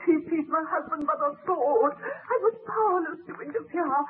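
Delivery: a grieving voice breaking into crying on some lines; tearful widow. Acted. The widow tells the baron how her husband was killed, weeping. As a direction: tell it through sobs, still in shock.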